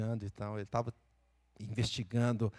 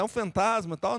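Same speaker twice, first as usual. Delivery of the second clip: mock fright; 8 semitones higher, 3 dB louder than usual. Frightened disciples imagined.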